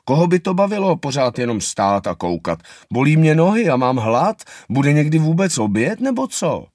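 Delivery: put-on whiny child voice, rising to a high squeak at the end; a small child fed up with standing; grumbling little anteater. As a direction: complain like a hungry, bored kid. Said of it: "že už toho má dost".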